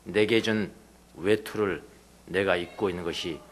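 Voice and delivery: soft, slow Jesus gently questioning; gentle voice of Jesus. Retold or imitated. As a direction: speak as Jesus, slowly and tenderly. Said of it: "예수님께서 그에게 하는 이야기가".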